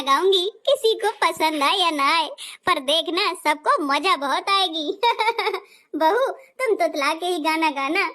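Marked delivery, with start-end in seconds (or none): 5.0-5.6 covering laugh. Acted. Covering up the bride's lisp.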